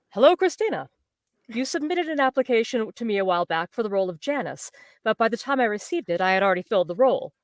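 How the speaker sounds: measured read-aloud of a letter; lightly formal reading voice; email read aloud. Acted. Actress reading out the casting email, measured read-aloud.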